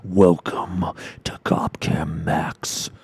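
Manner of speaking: slow, whispered sinister narrator; evil narrator voice. Retold or imitated. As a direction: hush it like a creepy show host. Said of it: "most unnecessary fucking evil narrator voice".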